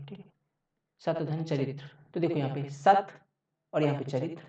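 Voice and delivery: normal talking voice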